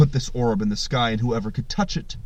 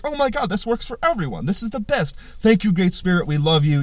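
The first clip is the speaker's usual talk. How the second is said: mock-excited crowd of animals, higher pitch; delighted gratitude; 6 semitones higher than usual. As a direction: gush with thanks, lightly hammed-up. Grateful animals cheer the Great Spirit.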